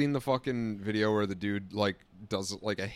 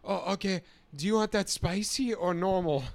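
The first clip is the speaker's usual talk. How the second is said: chirpy server; 8 semitones higher, 3 dB louder than usual. Retold or imitated. Quoting restaurant staff.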